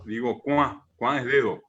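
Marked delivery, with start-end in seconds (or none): 0.4-0.9 "cuá" with the A through the nose; one syllable "cuá", ending in a nasal A; nasal vowel. Shown as a demonstration. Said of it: "K U y la A nasal".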